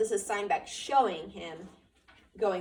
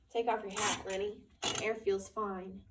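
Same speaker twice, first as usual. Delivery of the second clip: shaky voice. Acted. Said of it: "he said shakily".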